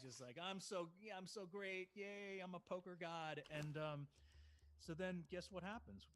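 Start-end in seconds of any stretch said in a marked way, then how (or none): 0.4-3.4 lightly mocking, higher sing-song gloat; a hint of dreamy self-congratulation; imitating gloating friend. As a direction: play the oblivious, elated winner. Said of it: "he's on top of the moon 'cause he won".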